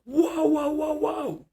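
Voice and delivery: high-pitched mock cries of whoa; imitated alarmed bystanders. Bystanders stopping a woman screaming at a child, high imitated alarm. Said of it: "grabbed her and was like".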